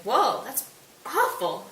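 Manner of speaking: slow, drawn-out mock dismay; appalled prince. Prince reacts to the killings.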